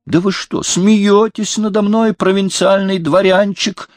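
a king mocking the upstart in rage; furious outcry. A narrator's reading. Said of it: "вскричал Людовик".

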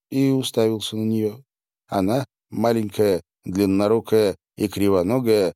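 ordinary delivery, nothing marked

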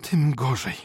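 high outraged exclamation; indignant cry. A narrator's reading. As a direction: exclaim it in offended shock. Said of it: "krzyknęła Maria Michajłowna".

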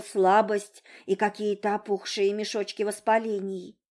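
ordinary delivery

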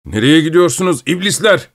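frightened shout. Acted. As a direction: yell in panic at the runaway team. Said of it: "korku içinde, diye bağırıyordu". (korkuyla yüksek perdeden bağırış)

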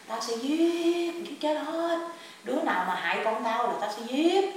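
imitated menace, words drawn out high; fierce retold threat. Grandmother's spirit vowing revenge on whoever harms her child, fiercely. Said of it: "bà làm dữ lắm".

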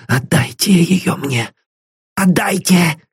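put-on old man gasps out his demand for the brooch, breathless and pleading; gasping. A narrator's reading. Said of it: "задыхаясь".

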